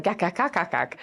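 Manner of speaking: mock empty chatter as clacking gak noises; mock babble. Mimicking people who hand out pat advice, mock babble. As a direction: rattle off meaningless quack-like gaks. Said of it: "they're just like".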